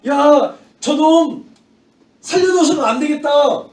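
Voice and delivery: loud, high mob yell; imitated angry outcry; acted shouting. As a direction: shout it as an outraged mob would. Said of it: "소리를 지르면서".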